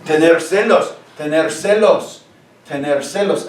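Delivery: Tener celos repeated clearly, celos stressed; teacher repeating tener celos; model Spanish. Shown as a demonstration. Teacher confirms student's answer for the class, clear Spanish. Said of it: "To be jealous".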